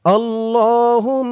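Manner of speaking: slow drawn-out recitation; recited slowly. Shown as a demonstration. Teacher modelling the dua, slow chanted recitation. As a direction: hold the vowels in a measured chant. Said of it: "আর আমি যেখানে যেমন টান দিব".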